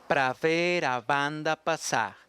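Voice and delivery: slow Portuguese reading; Portuguese pronunciation. Shown as a demonstration. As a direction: recite slowly in Portuguese. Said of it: "El tercer verso dice". (lectura lenta en portugués)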